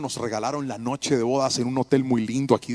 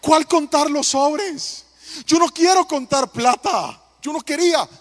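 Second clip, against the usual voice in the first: loud, high, slowed protest; husband scolds his greedy wife, loud exasperation; exasperated scolding; 11 semitones higher, 7 dB louder, slower than usual. Retold or imitated. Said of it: "Le dije".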